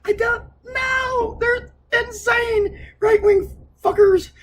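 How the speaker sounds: exaggerated mock sob-yell, pitched high; mock wailing. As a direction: ham up a slow crying whine. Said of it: "I was like".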